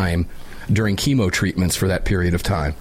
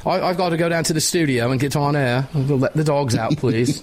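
mock English accent; 4 semitones higher than usual. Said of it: "You don't pick up the English accent when you're drinking tea?".

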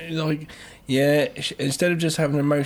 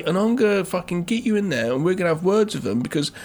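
mock drunk mum; 6 semitones higher than usual. Drunk mum voiced higher.

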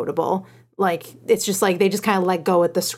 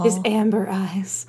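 dreamy whisper; slower than usual. Pretend. Swooning joke about Raph's eyes.

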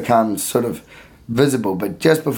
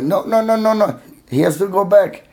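put-on high Indian accent, repeating no no no; 8 semitones higher than usual. Security guard refusing Julio the slide, in an Indian accent. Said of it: "he's an Indian man".

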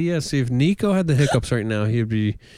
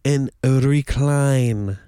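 hypnotist; slower than usual. Pretend. Hypnotist count down to sleep.

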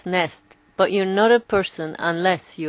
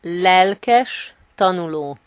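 slow demo; 4 dB louder, much slower than usual. Shown as a demonstration. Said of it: "how do you say avid learner in Hungarian".

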